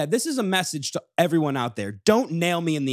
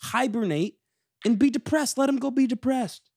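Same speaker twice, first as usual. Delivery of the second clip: high, pleading voice full of pity for Eeyore; high-pitched pity; 10 semitones higher than usual. Real, not acted. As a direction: whine it out high on his behalf. Pity rant about Eeyore.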